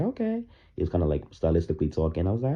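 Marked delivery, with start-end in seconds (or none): 0.0-0.4 skeptical okay. Retold or imitated. Reacting to a singer rapping.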